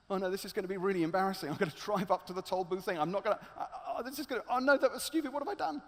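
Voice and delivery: quick, panicky self-talk with a nervous laugh. Acted. Man on the way to the toll booth, panicking. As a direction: gabble it out in growing panic. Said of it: "he gets more and more panicky".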